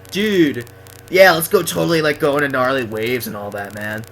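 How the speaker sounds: lightly put-on Californian surfer dude; Mister Heel. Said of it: "that's why he always said".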